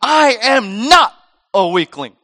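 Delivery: defiant comeback. Acted. Us answering Satan's taunt, loud defiant comeback. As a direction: belt out each word in acted indignation. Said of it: "our gut reaction ... is to come back".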